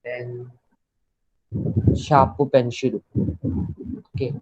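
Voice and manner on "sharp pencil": शापु पेंशिल, सुनिए shaa-pu pen-shiru जैसे; शापु पेंशिल को जापानी लहजे में बोलें; Japanese-style sharp pencil. Shown as a demonstration. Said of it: "शापु पेंशिल is sharp pencil". (जापानी उच्चारण में शापु पेंशिल)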